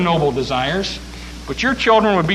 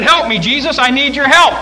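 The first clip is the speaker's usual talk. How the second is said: pleading mother; 8 semitones higher, 5 dB louder than usual. Acted. Mother begging Jesus.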